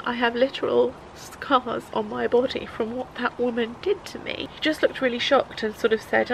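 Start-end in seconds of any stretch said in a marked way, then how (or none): 0.1-4.5 struggling retelling. Real, not acted. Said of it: "I said".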